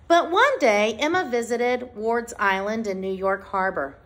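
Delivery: measured, clearly phrased picture-book read-aloud; reading to children. Acted. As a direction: read it out to a class, pausing between phrases. Reads picture book to class.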